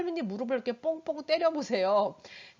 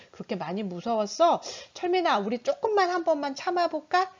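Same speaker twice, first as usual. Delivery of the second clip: soothing mom. Shown as a demonstration. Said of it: "이 아이의 감정을 읽어줘야죠".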